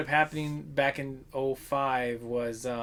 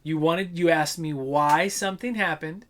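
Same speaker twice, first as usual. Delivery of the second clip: higher, mock exasperated comeback; imitating a sarcastic clerk putting a customer in his place; exasperated retort; 4 semitones higher than usual. Retold comeback to rude customer.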